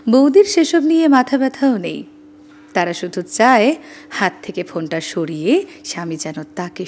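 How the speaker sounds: measured, expressive reading aloud; unhurried expressive reading; reading own writing. Shown as a demonstration. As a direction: read your piece warmly to listeners. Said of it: "আপনাদের একটু পড়ে শোনাচ্ছি".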